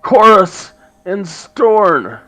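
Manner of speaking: high, loud raspy dwarf woman; the speaker's raspy voice. Acted. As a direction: rasp it out as a gruff dwarf. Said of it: "in a raspy voice".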